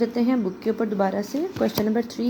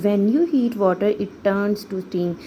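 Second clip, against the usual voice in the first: slow, careful full sentence; slow model sentence; much slower than usual. Shown as a demonstration. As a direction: read the full answer slowly for the class. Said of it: "कि जब आप पानी को गर्म करेंगे".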